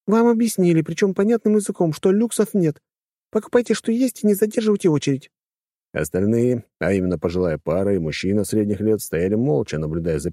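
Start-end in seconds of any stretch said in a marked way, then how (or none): 0.1-5.3 high, scornful lady's voice; haughty companion. A narrator's reading. Snobbish companion scolding man in queue, high and scornful. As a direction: talk down to him as if he's stupid.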